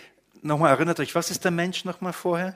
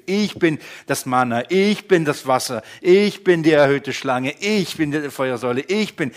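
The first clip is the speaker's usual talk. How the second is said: God speaking; 2 semitones higher, 7 dB louder than usual. Acted. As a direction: proclaim as God to his people. Preacher voices God speaking. (Gott verkündet laut, erhoben)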